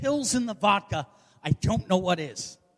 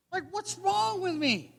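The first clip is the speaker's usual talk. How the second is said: high, softer comic lament; exasperated whine; 8 semitones higher, 5 dB quieter than usual. Acted. Single comedian lamenting to the crowd, exasperated whine.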